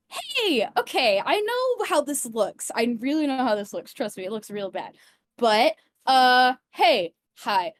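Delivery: lightly voiced character, lively swings in pitch; Meadow talking to animals. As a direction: lightly play a negotiator explaining herself to a wary creature. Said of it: "And just go".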